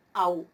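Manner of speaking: "Au" as one syllable, stressed on a; diphthong au. Shown as a demonstration. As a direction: glide from a into u in "Au". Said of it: "pronuncio yo".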